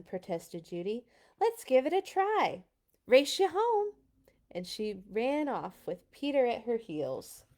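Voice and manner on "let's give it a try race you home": high and louder, bright eager challenge; eager excited girl. Acted. Judy challenging her brother, high excited dare. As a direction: dare him to race home.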